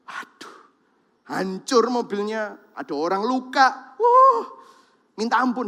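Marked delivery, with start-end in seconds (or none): 0.1-0.6 breathless whispered aduh; soft, voiceless aduh; whispered dismay. Retold or imitated. Picturing the car crash. 4.0-4.5 sudden high loud wah; shocked cry; alarmed exclamation. Retold or imitated. Reacting to the crash.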